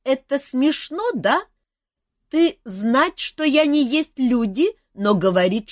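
high, slow, odd-voiced dragon lady; a friendly dragon eager for guests; curious dragon. Dragon questions the humans.

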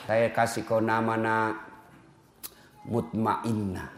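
soft low father's whisper-like naming; name the baby gently and slowly; tender naming. Pretend. Father softly giving his newborn a peaceful name.

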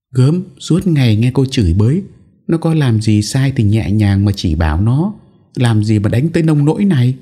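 put-on scolding older wife. A narrator's reading. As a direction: scold her, reprovingly. Bà cả voiced in story. (giọng bà cả trách móc, cao hơn)

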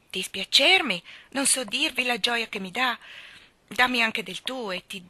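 forte, più alto, pieno di gioia; gioia incredula. A narrator's reading. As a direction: esplode di felicità, senza fiato. Baer felice della proposta di Joe. (Baer a Joe, gioia forte e incredula)

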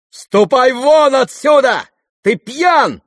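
loud, high, slow furious shout. Acted. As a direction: throw him out. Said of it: "крикнул ... Ганя".

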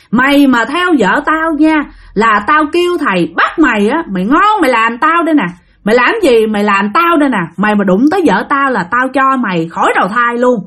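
acted defiant husband laying down the law; threatening warning. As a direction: warn the spirit off your wife. Husband warns spirit off his wife.

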